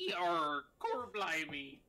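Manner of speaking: loud hammy pirate yarr. Acted. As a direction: ham up a pirate. Summoned pirate illusion speaks.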